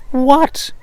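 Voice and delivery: a sudden high, loud "What?"; startled outburst. Acted. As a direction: jolt himself out of worry with a sharp cry. Cobbler snaps out of brooding.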